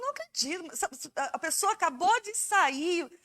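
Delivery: can't believe it, just saw him; stunned disbelief. Retold or imitated. Hearing a friend just died, stunned disbelief. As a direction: pitch jumps up in shock, then slows.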